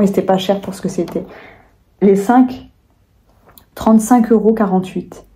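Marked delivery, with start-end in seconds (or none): 3.7-5.2 burp breaking into speech; talking while burping. Real, not acted. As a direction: speak through a burp. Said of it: "Pardon, j'ai roté".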